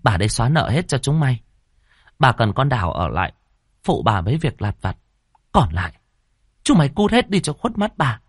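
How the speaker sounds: landlady settling it coldly, fast start; cold final verdict. Acted. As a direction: close the matter with icy authority. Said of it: "bà chỉ lạnh lùng chốt".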